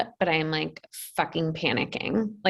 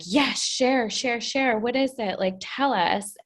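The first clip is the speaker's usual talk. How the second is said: higher, lightly voiced mock eager followers; imitating eager followers; 6 semitones higher than usual. Client mimicking new TikTok followers, lightly eager mock voice. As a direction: play the fans begging for more, half-joking. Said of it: "people being like".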